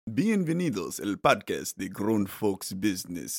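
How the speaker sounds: slow, grand Spanish sports announcer. Pretend. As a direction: announce it like ESPN Deportes. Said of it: "That's, like, your announcer voice?".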